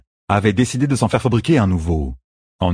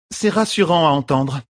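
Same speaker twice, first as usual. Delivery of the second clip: a touch of queenly irony; 8 semitones higher than usual. Acted. Elaine plays along.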